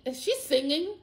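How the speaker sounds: amazed question. Retold or imitated. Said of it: "literally me saying".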